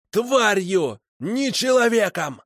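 high-pitched, insistent cries; angry outcry. A narrator's reading. Prisoner denies his victim was human, crying out. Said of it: "выкрикнул Макар".

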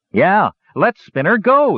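high, slow, loud yell; young gnome yelling. Acted. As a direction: take up the cry and push it. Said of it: "yelled a young gnome".

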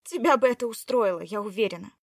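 sarcastic. Acted. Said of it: "сарказм".

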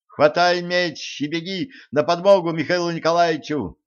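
high-pitched urging; urgent command. A narrator's reading. Zhenka sends Elisei to help, urgently commanding.

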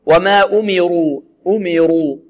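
أمروا slowly, with a full, thick ر; heavy raa. Shown as a demonstration. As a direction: round out the "ru" in أمروا. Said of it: "الراء مفخمة لأنها مضمومة".

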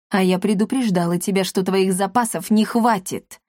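ordinary delivery, nothing marked

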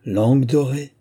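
smiling tease. A narrator's reading. Girl teasing the young man for his flattery, smiling. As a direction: tease him with a smile. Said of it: "fit Ludmilla en souriant".

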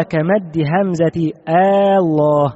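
"آه الله" with a long drawn opening "آه" before Allah, slowly; drawn-out Aah Allah. Shown as a demonstration. Teacher showing students the wrong added hamza, slowly drawn. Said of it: "ومثل على الحرف الذي يغير المعنى".

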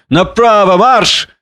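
high drill order, rising on the last word; commanding. A narrator's reading. Drunken man marches beasts away, commanding. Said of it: "командующего".

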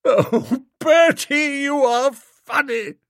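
put-on high, lilting society girl; fond girl teasing Bertie; Honoria's voice. A narrator's reading. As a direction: raise the pitch for the young lady.

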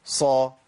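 صا with an audible whistling, breathy s onset; صفير وهمس. Shown as a demonstration. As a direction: let the ص of صا whistle clearly. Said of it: "سامعين صوت الصفير والهمس". (صا بصفير وهمس ظاهرين)

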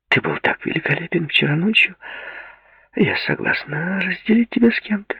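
soft flirty coo. A narrator's reading. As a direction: coo it sweetly. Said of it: "проворковала она".

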